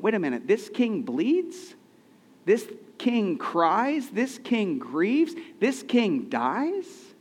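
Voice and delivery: slow, rising disbelief, each question drawn out; incredulous questioning. Retold or imitated. Preacher voicing doubters, slow and incredulous. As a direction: doubters asking how a king could bleed and die. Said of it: "they were saying".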